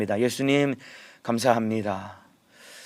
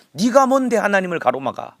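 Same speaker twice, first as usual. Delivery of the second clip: loud, higher stern self-rebuke; rebuking oneself; 6 semitones higher, 5 dB louder than usual. Shown as a demonstration. Pastor models a self-rebuke for the congregation, stern and loud. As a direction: scold yourself like a stern elder. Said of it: "책망하고 꾸지람하는 듯한 마음으로".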